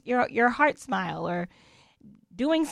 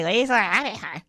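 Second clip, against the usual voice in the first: snide. Retold or imitated. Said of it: "that's not a compliment".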